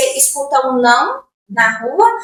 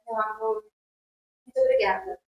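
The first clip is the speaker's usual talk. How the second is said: mock sweet brush-off. Dismissing a date, mock polite.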